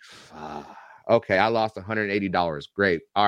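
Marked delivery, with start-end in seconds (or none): 0.0-0.7 muttered curse. Retold or imitated. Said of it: "I was like".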